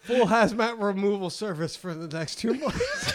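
ad read broken by laughter; laughing through the ad. Acted. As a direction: read while cracking up. Mock commercial order pitch.

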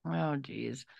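unvoiced whispered aside; whispering. Real, not acted. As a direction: breathe it out under your breath. Quiet aside after sister jab.

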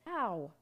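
drawn yelp of pain. A narrator's reading. Wolf hit by a bean, pained yelp. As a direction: cry out as if hit.

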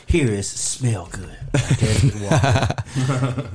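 slow, hushed commercial voice; mock perfume ad. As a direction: sell the cologne like a TV ad. Mock cologne ad.

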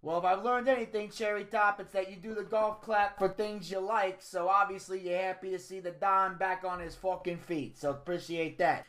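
lightly voiced mobster Don. The Don thanks Cherry Top for the golf clap, pleased. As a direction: play a pleased Italian-American Don.

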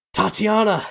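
loud, high cry of her name; a man crying out to his falling bride, loud and high; anguished shout. Acted. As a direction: scream her name as she goes over. Strahd cries out as she falls.

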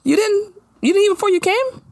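high-pitched fake surprise at a guest; mock-innocent petty. Imagined hostess needling her hungry guest, mock-innocent. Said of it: "what Maya should have been like".

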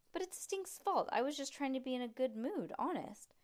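high, pleading whine; whiny protest. Acted. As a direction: protest it's not fair. Judy protesting to Mom.

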